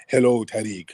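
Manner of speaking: slow, drawn-out mock vampire greeting, lightly voiced; African vampire imitation. Host mocking the caller's accent as a slow African vampire. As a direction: slowly play a hammed-up vampire mocking the caller. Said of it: "you sound like an African vampire".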